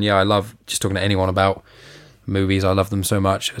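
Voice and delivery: slightly wheezy, rough breath. Real, not acted. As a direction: talk through a wheezy throat. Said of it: "God, I sound so wheezy today".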